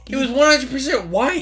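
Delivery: high, loud protest; indignant disbelief. Real, not acted. Disbelieving objection in an argument.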